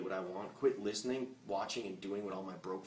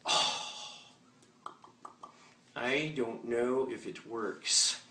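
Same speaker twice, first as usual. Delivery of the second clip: doubtful newbie; much slower than usual. Retold or imitated. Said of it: "you're gonna go".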